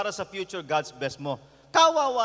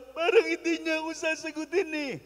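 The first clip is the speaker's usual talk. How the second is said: a higher, lightly voiced doubting young man; lovesick young man; 7 semitones higher than usual. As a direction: sound unsure he'll win her. (lalaking nag-aalinlangan, medyo mataas ang boses)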